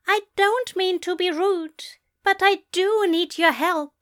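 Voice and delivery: high, apologetic British voice; precise British accent. A narrator's reading. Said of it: "precise British voice seized his throat".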